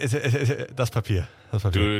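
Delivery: put-on drunken slurred words; slurring drunk. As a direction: slur it like you're wasted. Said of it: "du lallst schon ein bisschen".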